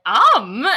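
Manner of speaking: loud mock eager "om"; mock optimistic chomp noise. Teasing friend for eating the bean, mock optimistic. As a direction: imitate an eager bite, loudly. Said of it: "going into it with so much optimism".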